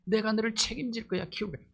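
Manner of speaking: lightly voiced tender Jesus comforting Peter; tender reassurance. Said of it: "이 눈빛으로 바라보는 거야".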